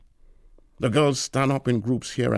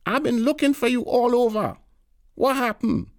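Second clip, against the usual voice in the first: put-on old auntie voice; 14 semitones higher than usual. A narrator's reading. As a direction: play the pushy old neighbour at full pitch. Tanti scolding Harris.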